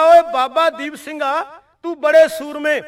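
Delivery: the general spits his challenge; mild mock fury of an enemy general; retold angry challenge. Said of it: "Jamal ਖਾਂ ਜਰਨੈਲ ਗੁੱਸੇ ਵਿੱਚ ਆ ਗਿਆ".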